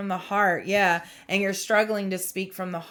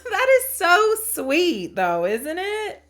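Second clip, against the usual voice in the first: touched, near tears; 10 semitones higher, 6 dB louder, slower than usual. Real, not acted. Touched by the message.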